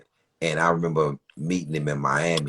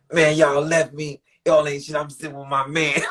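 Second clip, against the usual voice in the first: mock scolding a rapper; 10 semitones higher than usual. A rapper scolding his crew.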